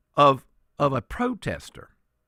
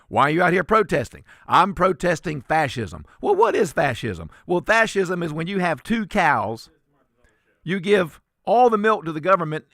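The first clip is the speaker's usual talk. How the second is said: lightly voiced question and answer, a bit louder; mock protester interview; 3 semitones higher, 4 dB louder than usual. Host mocking protesters, doing both interview voices, lightly hammed. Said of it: "Let me give you the fascism answer".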